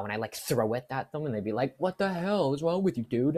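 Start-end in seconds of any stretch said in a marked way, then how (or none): 1.8-3.4 high, loud mock outrage; mock outraged coworker yell. Coworker yelling at thrown cone.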